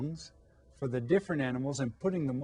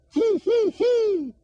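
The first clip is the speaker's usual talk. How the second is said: very high, loud whinny; high loud horse whinny; 8 dB louder, slower than usual. Pretend. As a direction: neigh like a horse. Horse sound in story.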